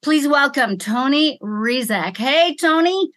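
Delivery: ordinary talk, nothing marked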